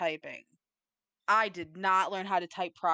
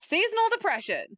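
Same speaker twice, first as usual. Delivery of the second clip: much higher, mock-dramatic echo; 12 semitones higher, 4 dB louder than usual. Real, not acted. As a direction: echo it high and theatrical. Echoes partner's answer, high.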